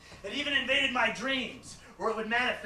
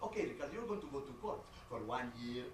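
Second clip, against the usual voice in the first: lightly voiced accented mom; lecturing mother; 6 dB quieter than usual. Mother warning her son about court, lecturing. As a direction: spell out his fate like a worried mother.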